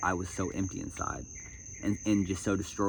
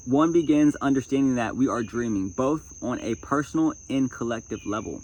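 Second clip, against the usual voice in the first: louder, emphatic read-aloud voice; projected reading from a self-help book; 3 semitones higher, 4 dB louder than usual. Acted. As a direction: read it out firmly to an audience.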